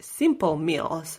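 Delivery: "simple meals" slowed down for emphasis; stress on simple meals. Real, not acted. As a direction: lean slowly on "simple meals". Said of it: "I wanna stress it".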